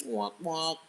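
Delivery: low, soft mock-sympathy "womp womp"; playful letdown noise; mock sad trombone. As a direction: imitate a deflating sad trombone, softly. Mock sympathy for rejected suitor.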